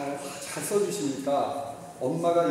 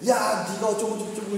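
mock scolding of a child, a bit higher; half-acted angry parent; scolding yell; 5 semitones higher than usual. Shown as a demonstration. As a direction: bark at the kid like a nagging parent. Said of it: "이러면 애들은 바로 물어줘".

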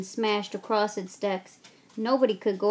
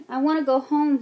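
sobbing; 5 semitones higher, 5 dB louder than usual. A narrator's reading. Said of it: "he sobbed".

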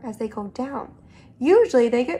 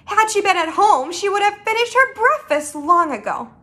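animated read-aloud storytelling; lilting storybook reading; story narration; 6 semitones higher, 5 dB louder than usual. A narrator's reading. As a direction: narrate to children with lively emphasis.

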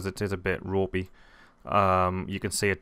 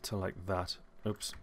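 talking through hiccups; hiccuping mid sentence; 7 dB quieter, slower than usual. Real, not acted. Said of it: "got the hiccups".

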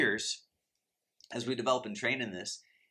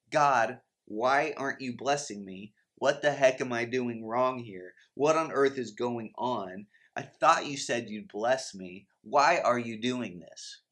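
louder, slow, exasperated pleading with God; acted frustrated prayer, louder and dragged out; angry frustration; 4 dB louder, slower than usual. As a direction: complain to God, fed up and pushing each word. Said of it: "will respond angrily, confused, and frustrated".

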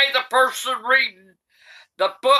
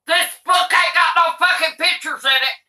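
ranting shout; 5 semitones higher than usual. Real, not acted. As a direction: rail against the book. Granny ranting about the book.

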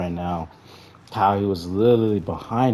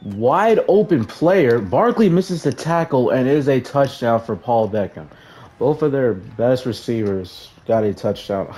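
high, loud frustrated yell at the screen; real gamer rage, much higher and louder; exasperated outburst; 5 semitones higher, 5 dB louder than usual. Real, not acted. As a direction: blurt it out as your defense collapses. Opponent scores, gamer erupts.

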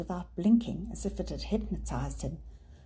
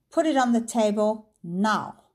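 cold, measured threat; deadly calm menace; calm but chilling; 4 semitones higher, 7 dB louder than usual. Acted. Villain threatens to shoot the dog, calm but chilling.

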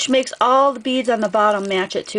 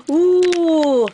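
excited gasp; 6 semitones higher than usual. Real, not acted. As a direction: gasp with genuine excitement at the package. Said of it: "I got excited".

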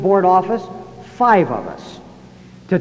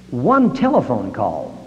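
slow emphasis; 5 semitones lower, slower than usual. Shown as a demonstration. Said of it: "repeated for emphasis".

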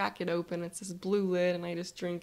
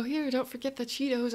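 excited; 5 semitones higher than usual. Acted. Offering snacks playfully.

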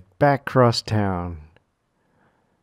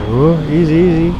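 loud, higher tense "easy, easy"; excited; 6 semitones higher, 7 dB louder than usual. Real, not acted. Tense moment in gameplay.

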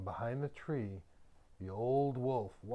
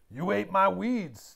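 astonished wolf; 7 semitones higher, 9 dB louder than usual. A narrator's reading. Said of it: "the old wolf said".

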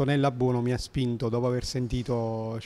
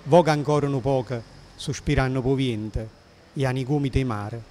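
put-on poem recited in old Neapolitan dialect. Shown as a demonstration. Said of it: "scrive in un napoletano antico".

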